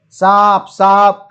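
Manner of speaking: loud frightened cry of "સાપ"; scared shouting. Retold or imitated. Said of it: "ગભરાયેલા દોસ્તોએ ખૂબ બૂમો પાડી". (ગભરાઈને મોટેથી બૂમ)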